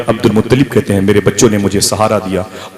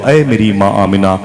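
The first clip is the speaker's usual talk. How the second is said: voice from the womb; 4 semitones higher than usual. Acted. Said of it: "मेरे शिकम से आवाज आई".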